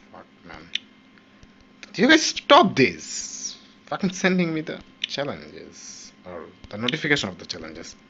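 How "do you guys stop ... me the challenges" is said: exasperated shout. Real, not acted. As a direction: yell at the game to stop nagging. Annoyed at challenge notifications.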